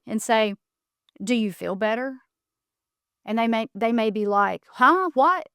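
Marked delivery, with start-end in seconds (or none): 1.2-2.2 calm, measured question with a rising end. Shown as a demonstration. Modelling a reply to somebody who insults you, very calm. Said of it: "very calmly". 4.7-5.5 higher-pitched, startled confusion; acted thrown-off reaction; baffled. Insulter caught out by the calm question, baffled.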